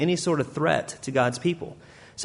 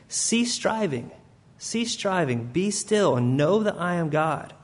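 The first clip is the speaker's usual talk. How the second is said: soft slow command; 3 semitones higher, 3 dB quieter, slower than usual. Acted. Pastor voicing God's comfort to anxious listeners, hushed and slow. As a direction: lay the words down gently and slowly.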